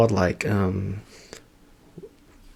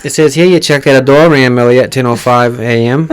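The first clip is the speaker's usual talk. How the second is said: mock cop; 3 dB louder than usual. Cop skit, Jersey accent.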